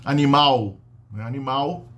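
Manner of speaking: "animal" ending in W, "animaw"; L vocalized. Shown as a demonstration. Teacher shows "animal" sounding like "animaw". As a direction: end "animal" on a W glide. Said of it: "não tem sílaba terminando com L".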